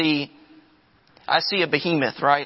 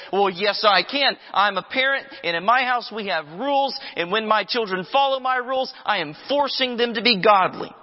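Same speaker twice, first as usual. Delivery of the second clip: mock objecting parent; 4 semitones higher than usual. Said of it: "Someone says".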